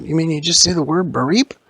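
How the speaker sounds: high, loud character voice; incredulous question. Acted. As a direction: ask it high and amazed. Character questions the jump scare.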